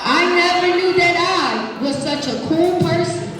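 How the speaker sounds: put-on expressive read-aloud to kids; reading to children. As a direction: read it warmly to the class. Reading picture book aloud.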